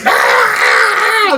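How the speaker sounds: high, loud squealing cheer; rat cheer. Acted. Game master voicing the cheering rats, high squeal.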